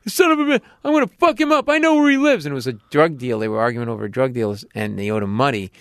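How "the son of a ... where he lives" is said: put-on high, loud drunken yell; mock drunk bar yell. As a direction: holler it like the slashed drunk. Drunk cut man yelling at bar.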